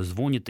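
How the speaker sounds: звонит stressed on the first syllable, ЗВО-нит; wrong stress. Shown as a demonstration. Expert cites the banned form: звонит, stressed ЗВО-нит. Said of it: "«нельзя»".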